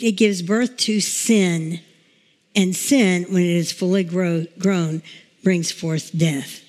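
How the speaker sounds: slow, weighty scripture reading; slow, solemn reading of James to the congregation. Acted. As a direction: read the verses as the word of God. Reads James chapter one aloud.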